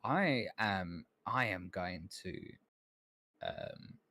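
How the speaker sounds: the bitter assistant who wants out from under her shadow; high, indignant assistant voice; Calmont, resentful. Acted.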